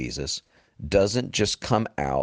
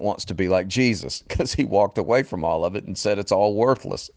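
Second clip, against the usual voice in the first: amused, laughing. Real, not acted. Preacher mocking the prosperity movement, amused and laughing. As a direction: laugh breaking into brisk preaching. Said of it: "I shouldn't even laugh at that".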